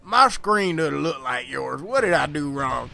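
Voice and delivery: imitating a country old-timer, halting; country accent. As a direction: put on a rough country accent for a confused classmate. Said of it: "please don't mind my country accent".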